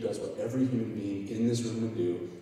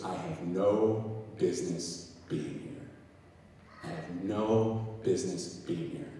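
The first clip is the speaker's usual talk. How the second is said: shaken, stunned; 4 semitones lower, 5 dB quieter, slower than usual. Retold or imitated. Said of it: "totally shaken and rattled".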